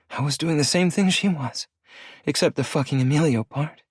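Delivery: lightly voiced bitter young woman. A narrator's reading. Layton voiced higher.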